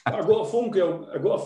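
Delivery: real laughter after telling the story; laughing. Real, not acted.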